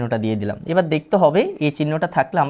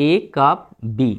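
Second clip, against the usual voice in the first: slow, separated reading of "এ কাপ বি"; slow teacher's read-out; demonstrated reading; slower than usual. Shown as a demonstration. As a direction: read out "এ কাপ বি" slowly, symbol by symbol. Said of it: "আমি এই প্রশ্নটা পড়ে একটু দেখাচ্ছি".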